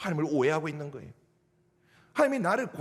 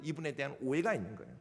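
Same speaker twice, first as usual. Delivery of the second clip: "오해가" said again much softer and lower; softer repeat; 5 semitones lower, 8 dB quieter than usual. Shown as a demonstration. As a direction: drop the repeat to a murmur. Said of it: "repeated softly". (반복할 때 훨씬 작고 낮게)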